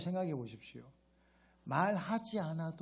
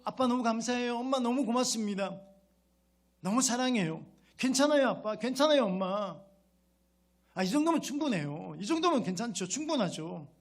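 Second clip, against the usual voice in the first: put-on a child gushing thanks, pitched up and louder; grateful child, raised voice; 4 semitones higher, 4 dB louder than usual. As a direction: thank your parents brightly and loudly, like a child. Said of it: "근데 그런데 계속". (부모에게 고맙다고 말하는 자녀, 높고 큰 목소리로)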